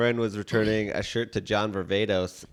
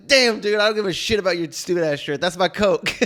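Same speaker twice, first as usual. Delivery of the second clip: laughing retold thought; 6 semitones higher than usual. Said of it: "I was like".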